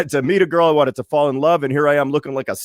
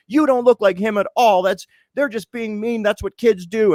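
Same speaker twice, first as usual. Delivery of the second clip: higher, soothing mom voice; mom reassuring; 8 semitones higher than usual. Retold or imitated. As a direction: play his mother brushing it off, pitched up. Mom reassuring him at the table.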